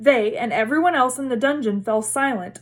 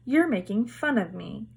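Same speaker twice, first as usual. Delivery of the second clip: tearful; 4 dB quieter than usual. A narrator's reading. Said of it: "silver tears welling".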